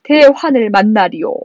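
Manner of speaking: high, sustained mock wail; hammed-up tearful king; acted wailing lament. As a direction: lament with regret on a held high tone. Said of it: "왕이 이제서야 손을 잡고 통곡합니다".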